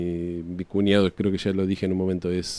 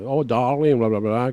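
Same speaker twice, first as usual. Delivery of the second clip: posh English upper-class voice, pitched higher; mock upper class; 3 semitones higher, slower than usual. Explaining English class accents, mock posh upper-class voice. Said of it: "la clase alta habla como la".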